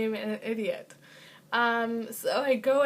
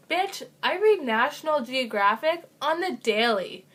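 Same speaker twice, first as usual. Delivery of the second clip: mock sass; 2 semitones higher, 4 dB louder than usual. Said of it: "I'm just kidding".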